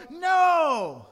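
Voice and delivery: loud high shout of no; children shouting no at the teacher; children yelling. Retold or imitated. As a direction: yell it like a room of kids. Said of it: "the children all yelled".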